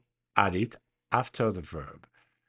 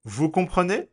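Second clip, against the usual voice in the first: "Vous comprenez?" high and louder, ending on a rise; question intonation; 7 semitones higher, 5 dB louder than usual. Shown as a demonstration. Teacher gives an example of a spoken French question, rising intonation. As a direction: lift the end of "comprenez" into a question. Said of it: "but the intonation is different".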